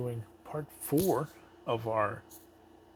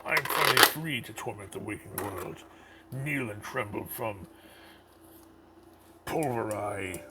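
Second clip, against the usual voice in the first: mad scientist. Acted. Reads villain's boxed quote.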